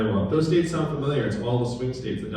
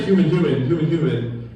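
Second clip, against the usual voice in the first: demanding a human; 4 semitones higher, 5 dB louder than usual. Retold or imitated. Caller pounding zero, demanding a human.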